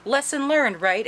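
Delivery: lightly voiced high, sing-song coaxing; coaxing captor. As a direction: lightly imitate a captor placating a child. Outcast coaxing the captive, acted out.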